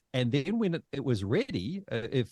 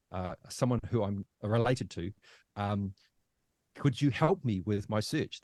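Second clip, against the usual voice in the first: reciting prepared speech. Retold or imitated. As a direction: feel your way through a rehearsed request. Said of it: "this little pre-prepared speech".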